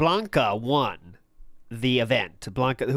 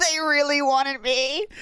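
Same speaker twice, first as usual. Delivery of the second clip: high, slow sing-song mockery; mocking; 11 semitones higher, slower than usual. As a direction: drawl it out like a taunt. Mocking the streamer's words.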